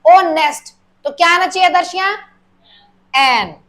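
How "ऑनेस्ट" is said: ऑनेस्ट with no h, starting on the vowel; showing the silent h in ऑनेस्ट. Shown as a demonstration. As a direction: say ऑनेस्ट so it opens on ऑ. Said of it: "एच silent है".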